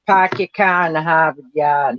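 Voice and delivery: Boston accent. Shown as a demonstration. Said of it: "Boston people don't".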